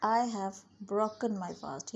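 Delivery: slow, careful teaching read; slow model sentence. Shown as a demonstration. Teacher modelling the English sentence slowly. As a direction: say it slowly so learners can follow. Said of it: "मेरा रोज़ा टूट गया है।".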